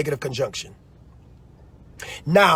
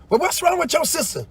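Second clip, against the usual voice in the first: higher pitched, lightly voiced busybody; mock nosy question; 10 semitones higher than usual. Mimicking someone asking about a sister, lightly voiced. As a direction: ask like a curious neighbour, lightly voiced. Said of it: "heard somebody say".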